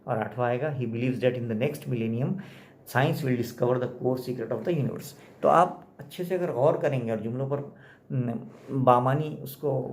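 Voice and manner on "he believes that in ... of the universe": slow, word-by-word textbook reading; slow dictation. Acted. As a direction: read it out slowly like dictation. Reads textbook sentence aloud. (धीरे धीरे इमला की तरह)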